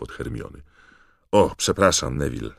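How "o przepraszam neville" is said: calling out. Acted. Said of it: "zawołał Fred, przekrzykując ogólny śmiech".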